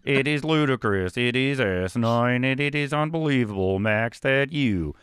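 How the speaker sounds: slow, loud sports-pundit rant; Stephen A. Smith sportscaster. Pretend. Host mocking a sports pundit, loud slow rant. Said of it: "caster who talks like Stephen".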